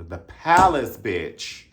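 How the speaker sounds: put-on hyping up the old club; excited shout-out. Hyped shout-out.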